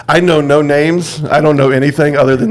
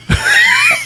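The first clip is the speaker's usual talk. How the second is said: mock yell. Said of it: "yelled at me".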